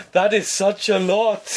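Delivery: slow, high-pitched mock horror; feigned shock. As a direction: overact amazement as the scammer, stretching the words. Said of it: "Feign a shock and horror".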